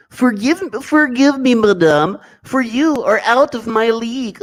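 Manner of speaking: high, slow falsetto gent pleading with madame; put-on voice. Reading a chat message aloud, high slow put-on falsetto. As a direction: pitch it way up and draw out the apology. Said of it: "let me read this in the correct voice".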